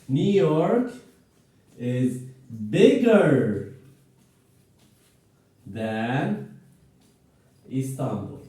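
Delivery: slow and spaced, with "bigger" pushed a bit; slow model sentence. Shown as a demonstration. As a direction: model it slowly for the class. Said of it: "let me model some examples here".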